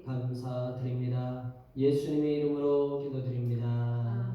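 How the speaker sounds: solemn, measured close to a prayer; formal prayer closing. Real, not acted. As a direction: bring the congregational prayer to a close. (기도를 맺는 엄숙한 어조)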